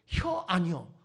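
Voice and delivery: a short mock Chungcheong exchange; 짧은 충청도 사투리 흉내; Chungcheong dialect. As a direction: imitate how briefly Chungcheong folk answer. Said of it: "이거 가지고".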